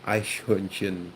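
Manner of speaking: EICHHÖRNCHEN slowly, with soft German CH; slow demo of EICHHÖRNCHEN in German pronunciation; German CH sound. Shown as a demonstration. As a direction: draw out EICHHÖRNCHEN, showing each CH. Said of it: "the C H is kind of like an X sound".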